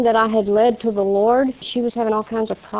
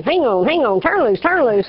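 mild mock holler, rising higher; 3 semitones higher than usual. Retelling praying women hollering at her, mild mock holler. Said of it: "screaming and hollering".

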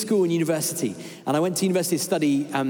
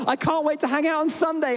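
bright, much higher, bubbling over; gushing email voice; 10 semitones higher than usual. Retold or imitated. Preacher reading his own email, gushing and high. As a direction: read it like every line ends in an exclamation mark. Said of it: "each sentence is like".

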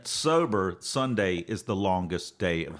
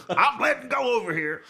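laughing; 13 semitones higher than usual. Acted. Mock effort.

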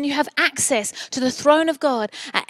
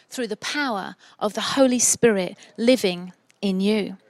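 measured, slightly lower reading voice; scripture reading; 3 semitones lower than usual. Acted. Preacher reads a passage to the congregation, measured scripture reading. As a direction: read the passage out with deliberate phrasing.

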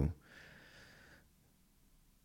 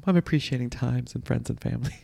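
higher, put-on social media voice; mock-sincere poster voice; mock Instagram poster; 5 semitones higher than usual. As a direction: parody a gushing Instagram caption. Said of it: "just like on Instagram".

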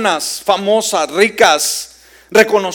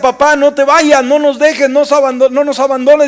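higher-pitched retold plea of a daughter; clinging plea; 5 semitones higher than usual. Daughter clinging to her dying father, retold pleading. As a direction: imitate a daughter begging, pitched up. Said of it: "Su hija se aferraba y le decía".

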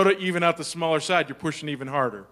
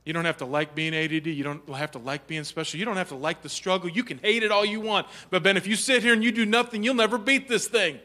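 caring teacher; 3 semitones higher than usual. Retold or imitated. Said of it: "heart of a teacher who said".

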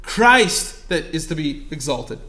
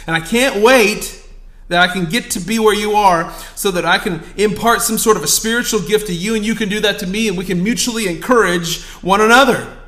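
1 preaching; 3 semitones higher, 6 dB louder than usual. Acted. Preaching Paul's words with force.

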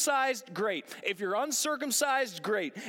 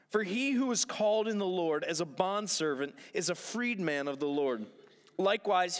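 measured, formal Bible reading; solemn reading from the pulpit; scripture reading; 3 semitones lower than usual. Acted. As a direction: read the passage with steady gravity. Reads scripture passage aloud.

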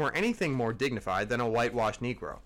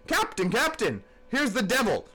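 much higher, alarmed cries; frantic yell; 7 semitones higher than usual. A narrator's reading. Bumpkin running to the captain, frantic high yell. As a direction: scream for help as if the devil came. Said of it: "yelled the bumpkin".

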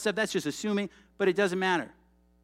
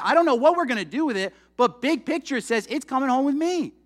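louder and higher, fired up; rising passion; 5 semitones higher, 3 dB louder than usual. Real, not acted. Pastor rallying the congregation, fired-up and louder. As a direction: preach it with growing fire. Preacher builds to a passionate peak.

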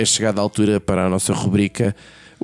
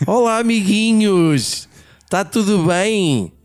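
cartoon princess; 4 semitones higher than usual. Greeting listeners in a sugary voice.

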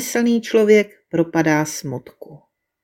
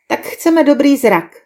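higher, slow, eager request; eager wish; 6 semitones higher than usual. A narrator's reading. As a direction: voice the people's hopeful wish. People state their wish to animals. (dychtivé přání, výše a pomalu)

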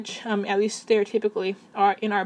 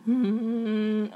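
chest voice demo. Shown as a demonstration. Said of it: "We have chest voice".

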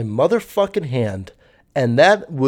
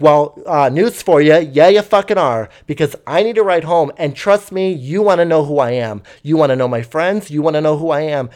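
mildly pushy imitation, a bit louder at first; demanding; 3 dB louder than usual. Passenger demanding a ride home, mildly imitated pushiness. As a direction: retell a cocky demand with light insistence. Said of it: "Then he demanded".

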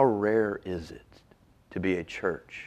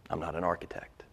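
whisper; 8 dB quieter than usual. Real, not acted. Whispered aside in sermon.

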